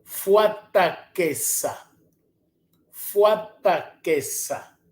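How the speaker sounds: "Fuataqueça" drawn out slowly, each syllable clear; slow model word. Shown as a demonstration. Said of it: "teacher models word".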